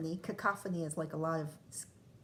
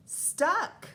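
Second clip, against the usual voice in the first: dramatic storytelling; 12 semitones higher, 8 dB louder, much slower than usual. A narrator's reading. Cat stuck up in tree.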